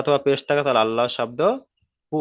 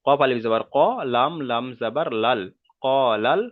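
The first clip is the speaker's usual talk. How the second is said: spelling drill. Shown as a demonstration. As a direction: spell it out deliberately for learners to follow. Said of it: "প্রথম বানান করলাম". (ধীরে ধীরে আরবি বানান করে পড়া)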